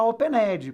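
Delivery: "opened" wrongly said o-pe-NED-jee; mistaken voiced E. Shown as a demonstration. Teacher mimicking the mistake, "opened" with E voiced. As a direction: sound the E in "opened" with an added final vowel. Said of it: "Nada de falar opened".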